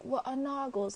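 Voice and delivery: put-on Cho's line in a light Irish accent; softly put-on Irish accent. Quoting Cho from Harry Potter, lightly Irish accent. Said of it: "an Irish accent".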